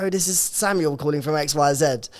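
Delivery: mild put-on posh English accent; a light posh English phone introduction; lightly done posh Queen's English. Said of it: "they tried to teach us Queen's English posh".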